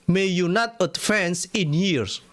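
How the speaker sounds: very slow, drawn-out curse; slow ominous curse; slow curse reading. Acted. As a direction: lay the curse on each word. Rereads the curse slowly.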